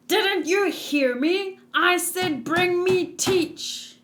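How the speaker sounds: a touch of an impatient captain; stern demand. Acted. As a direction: lean on it like a captain giving orders. Voicing a demanding game character.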